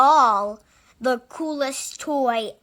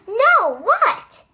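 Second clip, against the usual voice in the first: eager question; 9 semitones higher, 7 dB louder than usual. A narrator's reading.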